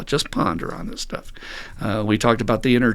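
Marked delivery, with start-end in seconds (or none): 0.0-1.3 whispered nudge. Shown as a demonstration. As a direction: whisper it, soft and unvoiced. Repeating the urge, hushed.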